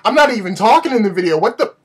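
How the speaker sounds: acted-out disbelief, drawing out the first words; incredulous reaction. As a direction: relive being stunned, pitch climbing as it goes on. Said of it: "I was like".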